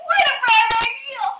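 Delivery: sarcastic. Real, not acted. Sarcastic jab at friend's idea.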